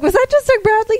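half-acted gasp of disbelief; retold stunned realization. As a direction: replay the moment it hit you, mock disbelief. Retelling realizing who held door.

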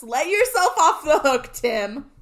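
emotional outburst at the TV; all caps plea. Retold or imitated. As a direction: call out to him like a fan at the screen. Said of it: "I said in all caps".

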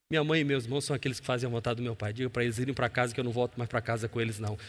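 quick, quiet dismissive answer; fast, low-key reply. Retold or imitated. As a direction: rattle it off quietly. Jesus responde à família. (resposta rápida e baixa)

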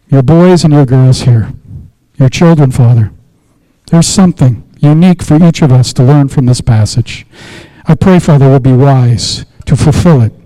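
steady, earnest pastoral prayer voice; measured prayer to the Father; closing prayer. Acted. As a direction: pray it over the congregation.

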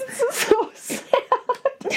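high, slow and tearful with a laugh; real weepy laugh; laugh-crying. Real, not acted.

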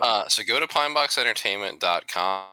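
broken-up audio, dropping out; glitchy connection dropouts; audio cutting out. Real, not acted. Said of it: "his audio cutting out".

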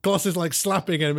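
normal talking voice

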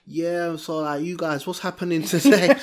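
casually voiced prince among mates; Prince Harry. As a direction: lightly imitate a royal talking street. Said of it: "Prince Harry talks like us".

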